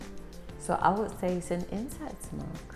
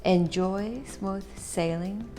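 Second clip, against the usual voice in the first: slow product read; slower than usual. Acted. Reads the tin description aloud.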